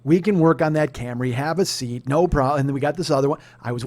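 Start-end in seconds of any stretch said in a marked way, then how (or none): 0.0-2.6 loud, lightly acted salesman relenting; imagined salesman giving in. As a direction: concede emphatically, as the imagined dealer. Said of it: "to make them go".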